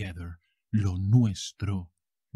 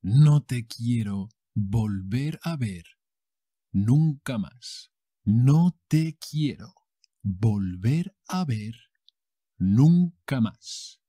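slow, dramatic telenovela rejection; telenovela outburst; slower than usual. Acted. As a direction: fling it at him like a soap-opera heroine. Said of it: "And then she goes".

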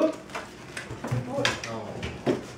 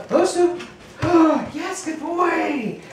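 excited; 4 semitones higher than usual. Real, not acted. Calling dog, then praising.

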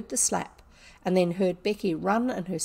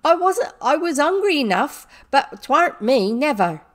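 high, loud wailing protest; distraught servant girl crying out; sobbing; 7 semitones higher, 10 dB louder than usual. A narrator's reading. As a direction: plead innocence through acted sobs. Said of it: "said Becky, sobbing".

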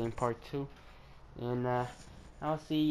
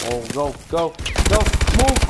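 barked order; 7 dB louder than usual. Real, not acted. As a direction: bark it at your own character. Frantic urging, rising to a shout.

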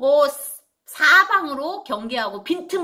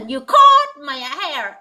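said fast, slurred; 2 semitones higher, 6 dB louder, much slower than usual. Shown as a demonstration. Teacher showing how fast speech blurs. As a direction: run caught my eye together so it sounds like hair. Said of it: "빨리 하면".

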